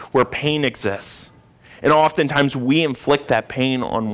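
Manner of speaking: emphatic pulpit proclamation; emphatic preaching. Real, not acted. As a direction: preach it with conviction, stressing key words. Preaches to the congregation.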